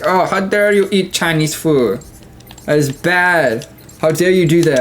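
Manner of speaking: mock-indignant mild Chinese accent. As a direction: scold slowly in a put-on Chinese accent. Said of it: "why I put a Chinese accent".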